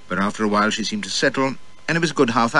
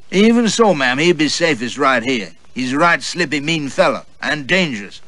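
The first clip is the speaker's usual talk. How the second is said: servant warning; 5 semitones higher, 3 dB louder than usual. Acted. Servant warns mistress.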